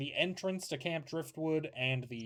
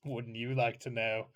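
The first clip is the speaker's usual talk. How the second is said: maniacal smile; 3 semitones lower, 3 dB quieter than usual. Acted. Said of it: "He smiles maniacally".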